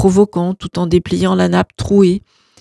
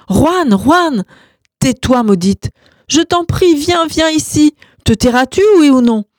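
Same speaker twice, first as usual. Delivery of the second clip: much higher, shrieking pleas; frantic shouting; 8 semitones higher, 3 dB louder than usual. Acted. Gloria shrieking at husband and parrot mid-fight, very high. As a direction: shriek over the fight to stop him.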